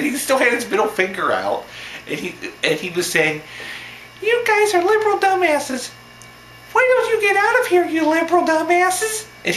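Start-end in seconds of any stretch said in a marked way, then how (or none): 4.2-9.3 very high, squeaky puppet heckling; Elmo voice. Retold or imitated. Heckler telling protesters to leave, in squeaky puppet falsetto. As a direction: scold them in a high puppet falsetto, louder. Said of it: "His voice sounded just like this".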